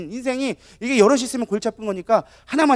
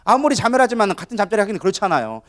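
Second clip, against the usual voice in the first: normal talking voice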